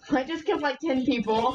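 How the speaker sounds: giggling through a brag; laughing. Real, not acted. Gamer laughing to teammate about his kills. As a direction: laugh out the kill count in disbelief.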